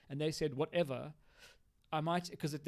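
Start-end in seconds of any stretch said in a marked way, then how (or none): 0.5-1.1 put-on child response. Shown as a demonstration. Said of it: "that sounds like a child response".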